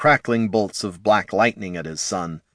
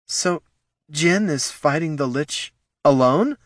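alarmed; 8 semitones higher than usual. Acted. Keitha alarmed, breath caught.

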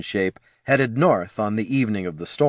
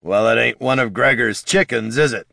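light growl. Acted. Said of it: "growled Bartimus".

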